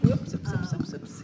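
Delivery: high-pitched startled oops; surprised oops. Real, not acted. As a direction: yelp oops as the mic slips. Mic mishap at the podium.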